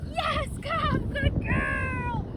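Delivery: high, eager praise to the dog; excited praise. Real, not acted. Trainer cheering her dog in, high and eager. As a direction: cheer her on as she comes.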